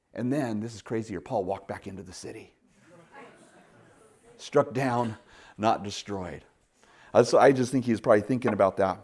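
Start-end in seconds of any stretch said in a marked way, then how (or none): 4.4-6.4 hushed restatement. Acted. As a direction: let the verse settle gently. Verse repeated quietly.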